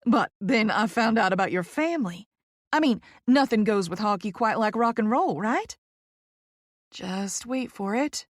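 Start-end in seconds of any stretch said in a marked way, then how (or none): 0.0-5.8 gushing Southern lady; lightly voiced bubbly Southern publicist; Poppy, effusive Southerner. Poppy bringing up the famous family, gushing Southern voice.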